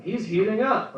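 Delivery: lightly hyped game call; a hint of an NBA commentator; sports announcer. Comic quoting video game announcers, mild hype call. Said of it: "instead of being like".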